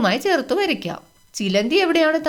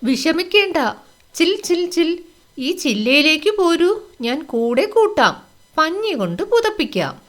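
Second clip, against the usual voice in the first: higher, chirpy squirrel voice comforting a chick; kind squirrel voice; 5 semitones higher than usual. Acted. Squirrel comforts the crying chick, higher and chirpy. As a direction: play a friendly little squirrel, reassuring. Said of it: "അണ്ണാൻ എന്താണ് പറഞ്ഞത്?".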